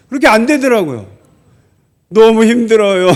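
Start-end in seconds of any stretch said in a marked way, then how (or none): 2.1-3.1 louder mock whine from a letter; hammed-up moan of hardship; retold complaint. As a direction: complain loudly, half in jest. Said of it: "이러면서 썼던 기억이 나요".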